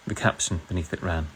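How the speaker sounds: measured put-on British narration; British accent. Streamer reading Orwell to viewers in a British accent. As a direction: read the novel aloud with a British accent. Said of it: "I'll do it in a British accent".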